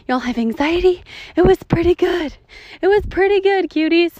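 high, sing-song playful God voice; mock voice of the creator. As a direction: tease them in a high, cutesy voice. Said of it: "that's like".

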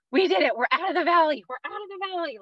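elated cheer. Retold or imitated. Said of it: "And we're like".

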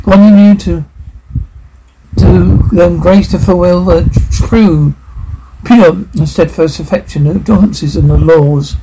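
measured official proclamation voice; solemn committee proclamation; formal decree reading. Acted. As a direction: read it out like a court clerk.

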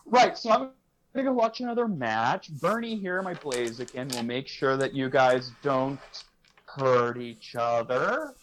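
lightly voiced professor excusing himself; awkward professor. Professor leaving the trainers to their match, lightly awkward. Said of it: "He goes".

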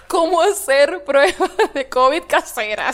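high, slow, laughing announcement; mock tutorial title. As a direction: draw it out like a silly video title. Mock title of home remedy search.

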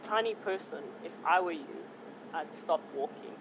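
hushed but carrying warning; quiet, pointed stage whisper; shout whisper. Acted. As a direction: say it low so it still carries. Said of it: "I'm gonna shout whisper at her".

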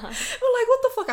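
high, slow, laughing what the fuck; stunned and laughing at the find; laughing disbelief. Retold or imitated. Finding the lost earring.

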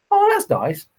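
high, thin disappointed little oh; mock wistful. Left-out visitor watching the party leave, mock disappointed. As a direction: pretend to be politely let down.

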